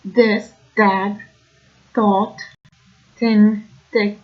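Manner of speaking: "this, that" said as "dis, dat", "thought, thin, thick" with the TH pushed against the teeth; Brooklyn dentalized TH. Shown as a demonstration. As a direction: hit the TH like a D or T, Brooklyn style. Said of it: "sort of like".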